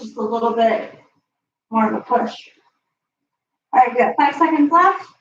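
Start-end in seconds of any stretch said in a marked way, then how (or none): 0.0-2.3 whispered. Real, not acted. Coaching crunches, words whispered.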